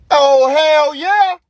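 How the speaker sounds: loud, high, drawn-out whoop; hammed-up excited holler; overjoyed yes. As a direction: stretch it out in gleeful agreement. Dad agreeing to donuts.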